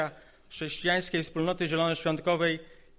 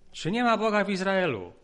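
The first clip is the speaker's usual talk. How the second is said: emphatic preaching question; 4 semitones higher than usual. Acted. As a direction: challenge the congregation with it. Rhetorical question repeated louder.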